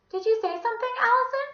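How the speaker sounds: high, loud lady calling through a door; inquiring visitor. Acted. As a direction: call out the question in a piping voice. Miss Mush asks through door.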